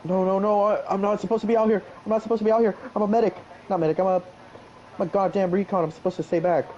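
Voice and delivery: high, fast panicked protest. Acted. Panicked in game.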